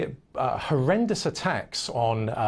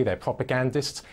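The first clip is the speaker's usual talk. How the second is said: ordinary talk, nothing marked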